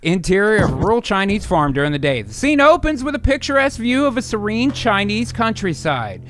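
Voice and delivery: screenplay narration. Acted. Reads screenplay scene setting.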